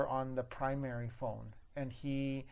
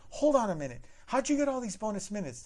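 higher, louder, firm manager cutting in; a pointed, higher manager voice; sassy manager; 8 semitones higher, 5 dB louder than usual. Retold or imitated. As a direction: stop the caller short with authority. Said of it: "And she's like".

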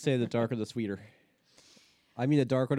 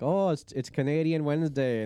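put-on Canadian accent; 2 semitones higher than usual. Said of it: "Everybody does Canadian accent".

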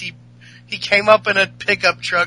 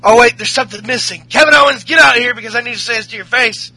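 retold call-out; 5 semitones higher, 6 dB louder, faster than usual. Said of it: "he said".

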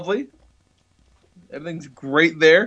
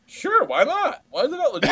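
much higher, carefree why-not; breezy shrug; 13 semitones higher than usual. Retold or imitated. Lee retells answering the groom's dad, airy shrug. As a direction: toss it off like it's obvious.

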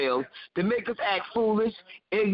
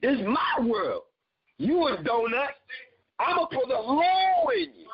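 imitating a sassy woman; 3 semitones higher than usual. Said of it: "Some women talk like that to men".

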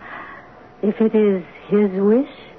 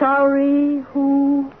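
cold demand; 4 semitones higher, much slower than usual. Acted. Stepmother demands title.

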